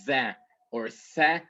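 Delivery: "the or tha" with voiced, then unvoiced th; clear th sounds. Shown as a demonstration. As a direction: demonstrate both th sounds in "the or tha", tongue between teeth. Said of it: "saying the T H like".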